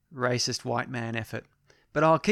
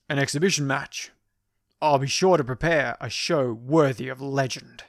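action hero voice. Retold or imitated. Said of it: "Again, I didn't really say it that way".

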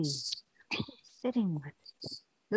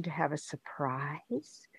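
whispering; 5 semitones lower, 9 dB quieter than usual. Acted. Mom sharing secret.

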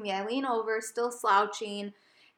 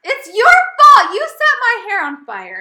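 loud, high accusing yell, slowed on the blame; mock outraged yell; 11 semitones higher, 16 dB louder than usual. Retelling yelling at boyfriend for burning hair, high loud mock outrage. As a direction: shout the blame at him, half joking. Blaming Joe after hair fire.

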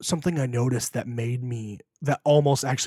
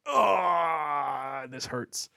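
imitating crying; 4 semitones higher, much slower than usual. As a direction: retell the moment he broke down, voice catching. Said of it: "I was like".

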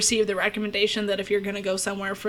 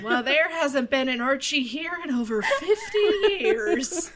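lightly voiced old prospector; a hint of a grizzled old-timer drawl; cowboy sidekick; 3 semitones higher than usual. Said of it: "Just say that in an old Prospector voice".

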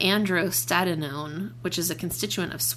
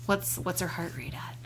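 whispering; 5 dB quieter than usual. Pretend. Joking whisper aside.

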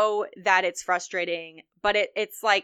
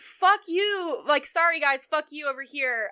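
mock contempt; 5 semitones higher than usual. Mocking liberals' attitude.

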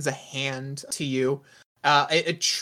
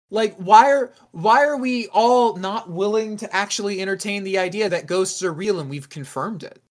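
higher, louder incredulous protest; exasperated disbelief; 6 semitones higher, 5 dB louder than usual. Acted. Arguing with teammates that ghosts are real, exasperated. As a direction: argue it in exasperation. Argues in character that ghosts exist.

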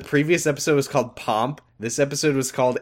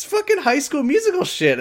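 excited; 3 dB louder than usual. Real, not acted. Excited about cheesy scene.

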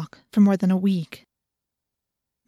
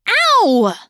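loud, high cry of pain; pained yelp; 10 semitones higher, 8 dB louder than usual. A narrator's reading. Rachel clawed by the cat, yelping in pain. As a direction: yelp from a sudden scratch. Cat has just scratched her hand.

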